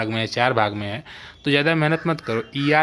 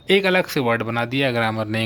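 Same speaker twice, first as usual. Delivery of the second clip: ordinary delivery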